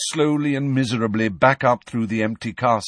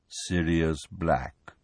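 solemn; 5 semitones lower, 4 dB quieter, much slower than usual. Acted. Nick naming the dead.

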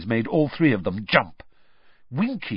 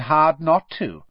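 slow drawl, a little raised in pitch and louder; 5 semitones higher, 4 dB louder than usual. A narrator's reading. Boy drawls from behind the three friends, drawling. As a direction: draw the words out lazily. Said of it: "said a drawling voice".

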